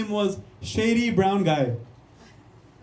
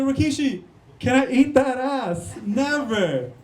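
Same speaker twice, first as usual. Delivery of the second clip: mock eager request; 5 semitones higher, slower than usual. Imagined eager question to wrestler.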